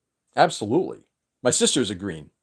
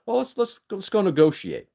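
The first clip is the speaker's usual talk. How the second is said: mock sweet backpedal; 8 semitones higher than usual. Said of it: "And then the next step says".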